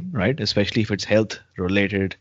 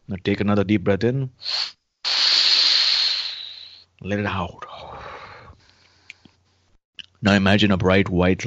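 calm meditative tone. Acted. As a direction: ease the listener into calm. Leads a guided healing meditation.

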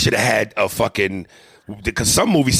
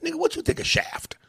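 mock stereotype question; 4 dB quieter than usual. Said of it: "if you said to me".

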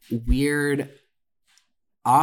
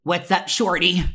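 a slightly higher flirting voice; flirty creep; 5 semitones higher than usual. Retold or imitated. The server flirting at the register. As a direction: hit on her with a line. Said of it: "he goes".

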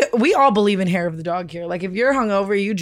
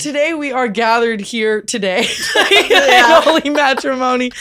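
laughing through vows; 2 semitones higher, 4 dB louder than usual. Pretend. Repeating the mock vows.

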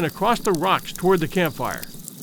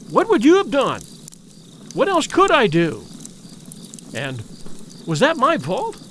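frightened pleading; 5 semitones higher than usual. Acted. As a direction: beg them for an answer. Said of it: "those restless, frightened eyes".

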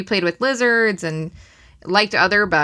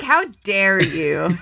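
slow, drawn-out "how dare you"; playfully scandalized, laughing through it; mock outrage; much slower than usual. Charlotte's Web fan to spider hater, mock offended.

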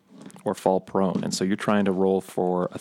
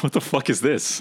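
baffled ape; 5 semitones higher than usual. Acted. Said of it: "It's like".

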